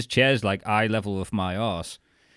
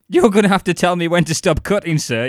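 polite waiter voice; 7 semitones higher, 8 dB louder than usual. Retold or imitated. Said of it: "and he goes".

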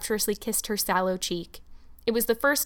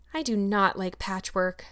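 doleful. Acted. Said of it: "said Anne dolefully".

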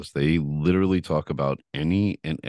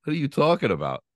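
incredulous outrage. Retold or imitated. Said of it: "I was like".

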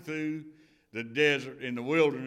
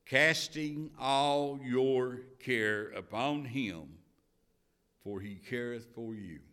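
measured, solemn reading of scripture. Acted. Preacher reading the Bible to the congregation, solemn.

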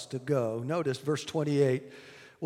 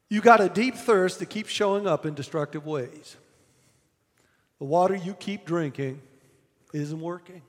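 gently; 3 dB louder than usual. Acted. Preacher voicing Jesus telling the woman gently. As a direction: ease off and say it kindly. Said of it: "Jesus says this gently".

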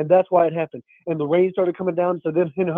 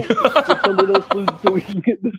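laughing while talking. Real, not acted. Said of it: "I can hear you laughing".

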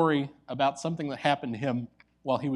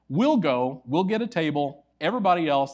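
calling out to the group; 4 semitones higher, 7 dB louder than usual. Retold or imitated. Professor calling to colleagues.

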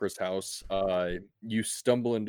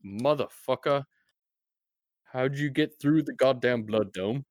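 higher, louder angry yell; angry shout; 5 semitones higher, 4 dB louder than usual. Acted. Duncan shouting down at the player from the wall, angry yell. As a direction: yell it down like a furious guard. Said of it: "he shouts out".

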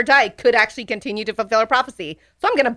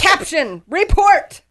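voiced Toot Toot; 10 semitones higher, 4 dB louder, much slower than usual. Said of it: "Toot Toot is like".

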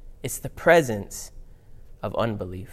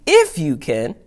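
sassy echo, louder; Jesus; 5 dB louder than usual. Acted. Jesus done being nice and polite, sassy. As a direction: hit it with mock disbelief. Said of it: "time for me to get sassy".

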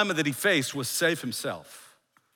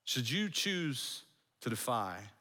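slow, soft, lower repetition; hushed warning; 3 semitones lower, 10 dB quieter than usual. Acted. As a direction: let the threat sink in quietly. Warning repeated slowly for effect.

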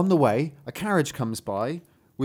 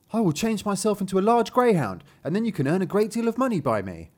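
higher-pitched storybook youth; eager son; 5 semitones higher than usual. Acted. Son telling his father about a money-making trick, eager character voice. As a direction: pitch your clever scheme as the son.

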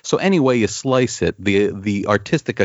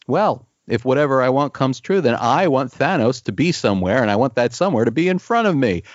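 lightly acted sassy comeback; smug, sneering challenge from an all-powerful hero; sneering sassiness; 3 semitones higher than usual. Comics fan voices Warlock picking up on his omnipotence, sassy. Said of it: "this sort of sneering sassiness".

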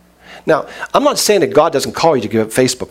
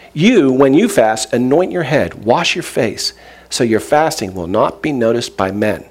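scripture reading. Acted. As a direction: read the verse out phrase by phrase. Reads scripture aloud to congregation.

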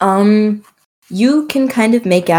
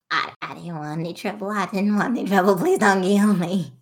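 terrified horror victim; 8 dB quieter than usual. Acted. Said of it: "backs away and goes".

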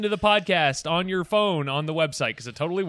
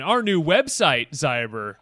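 excited reveal; 4 dB louder, slower than usual. Acted. Teasing reveal.

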